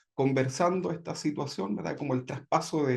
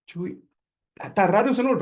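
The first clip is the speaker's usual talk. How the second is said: slow, drawn-out puzzling over a strange name, then a louder, higher "está raro ese nombre"; puzzled at the name; 4 semitones higher, 4 dB louder, slower than usual. Retold or imitated. Man in Chile reading the unfamiliar name Chuy, slow and puzzled. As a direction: sound out the odd name slowly, then blurt your surprise. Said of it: "Yo dije".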